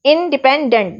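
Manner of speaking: इंडिपेंडेंट with weight on the final डेंट; stress on डेंट. Shown as a demonstration. Teacher showing students word stress, इंडिपेंडेंट stressed on डेंट. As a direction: lean on डेंट at the end of इंडिपेंडेंट. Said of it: "डेंट पर हम ज़्यादा जोर दे रहे हैं".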